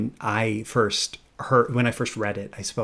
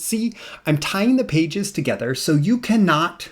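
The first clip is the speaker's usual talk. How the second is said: Grover voice; 6 semitones higher than usual. Acted. Grover scolds the reader for turning the page, high and panicked. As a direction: squeal it in alarm like a fretful puppet. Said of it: "So here's Grover".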